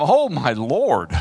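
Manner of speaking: drawn-out slow "Oh, my Lord", the "Oh" stretched and falling; slow awed plea. Shown as a demonstration. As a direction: breathe "Oh, my Lord" out slowly in wonder. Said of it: "Read it like that".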